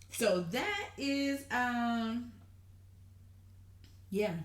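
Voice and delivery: normal talking voice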